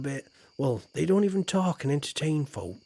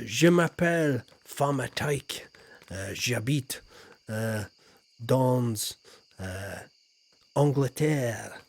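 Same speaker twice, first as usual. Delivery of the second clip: schoolboy French; 2 semitones lower, slower than usual. Shown as a demonstration. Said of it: "I can speak some French".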